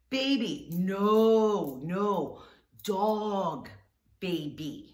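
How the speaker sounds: put-on high, loud no no dog baby; exaggerated explaining. Shown as a demonstration. Explaining dog versus baby to the Turkish sister. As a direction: overdo it for someone without English. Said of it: "Now I'm at the".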